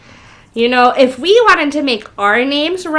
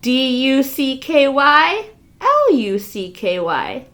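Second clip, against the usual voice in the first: spelling slowly. Shown as a demonstration. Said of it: "Ducky Lucky".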